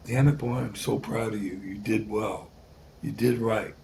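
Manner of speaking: low, soft imitation of a proud mother; proud mom. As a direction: quietly give a gruff mother's heartfelt praise. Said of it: "And then she's just like".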